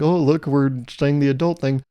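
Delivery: mildly ironic, mock-adult remark; tongue-in-cheek. Shown as a demonstration. Playing at adult talk, tongue-in-cheek. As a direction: say it with a light wink in the voice. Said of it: "kind of like a tongue-in-cheek".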